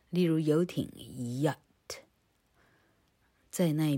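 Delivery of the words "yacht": yacht with a clear opening y glide; careful teaching take of yacht; model pronunciation. Shown as a demonstration. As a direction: demonstrate the y at the start of yacht. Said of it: "老柯念给你听哦".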